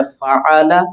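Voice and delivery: फ़आला with an "a" vowel after the ain; zabar on middle letter. Shown as a demonstration. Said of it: "ये लफ्ज यूं पढ़ा जा सकता है".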